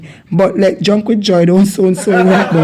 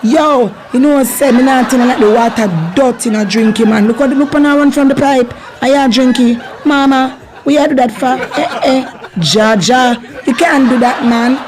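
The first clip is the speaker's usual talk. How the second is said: excited Jamaican warning; 3 semitones higher than usual. Acted. Acting a warning about dirty water.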